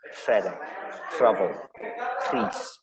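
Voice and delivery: "fede", "travel", "crease" opening on a breathy voiceless rolled R; "fede", "travel", "crease" with Welsh RH first; whispered, blown R. Shown as a demonstration. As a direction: blow through the trilled R that starts "fede", "travel", "crease". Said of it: "but whispered, blown".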